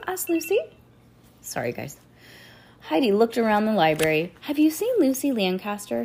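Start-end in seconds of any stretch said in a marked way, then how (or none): 4.4-6.0 higher-pitched hopeful question. A narrator's reading. Girl searching library for her friend, hopeful. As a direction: ask with hope, pitch lifted. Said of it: "she asked hopefully".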